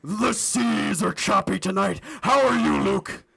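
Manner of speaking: hammed-up pirate captain voice. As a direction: growl it like a swaggering pirate. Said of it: "Me neither, it's hurting my throat".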